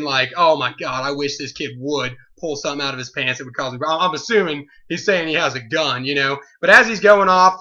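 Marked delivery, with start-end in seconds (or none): 0.4-3.8 low, soft muttered thought; inner thought. Retold or imitated. Clerk thinking to himself, low and hushed aside. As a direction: think it to yourself, lower. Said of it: "And I'm thinking".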